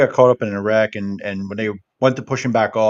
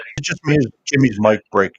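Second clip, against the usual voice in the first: glitchy robotic call. Real, not acted. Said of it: "you're laggy a little bit".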